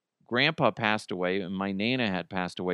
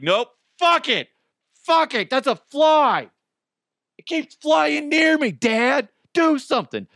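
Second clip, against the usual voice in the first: much higher, louder, frightened dog pleading; panicky dog voice; 6 dB louder than usual. Pretend. His dog, scared of a fly, begs Dad in a high panicky voice.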